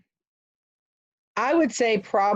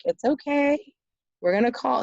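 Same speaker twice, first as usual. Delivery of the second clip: lightly voiced soothing aunt, pitched higher; retold reassurance; 7 semitones higher than usual. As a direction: imitate someone calming a crying child. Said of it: "And she's like".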